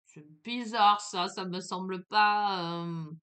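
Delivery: loud, slow, baffled inner voice; puzzled thought. Retold or imitated. Retelling to a friend how she realised she was lost, loud slow bafflement. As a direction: voice the moment it doesn't add up, drawn out and loud. Lost in olive fields, thinking aloud.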